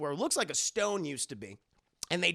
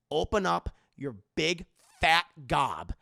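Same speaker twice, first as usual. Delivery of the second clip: mock scolding; 5 dB louder than usual. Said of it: "She's like".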